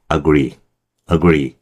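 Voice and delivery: I agree with the I swallowed; reduced I agree. Shown as a demonstration. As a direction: agree comes through, I barely heard. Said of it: "이 정도밖에 안 나요".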